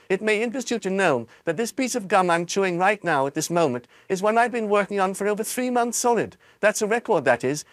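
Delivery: put-on high, fast boastful girl; gleeful spoiled girl, high voice; bratty girl voice. Violet brags to reporters.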